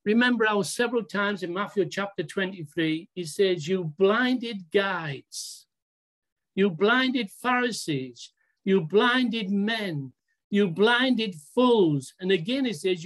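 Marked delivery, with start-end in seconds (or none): 3.7-12.1 slow, emphatic retold denunciation; measured rebuke, each phrase drawn out; denouncing. Preacher quoting Jesus to the Pharisees, slow denunciation. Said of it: "Remember how he denounced them".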